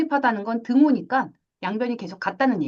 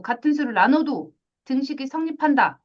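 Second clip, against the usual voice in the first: ordinary talk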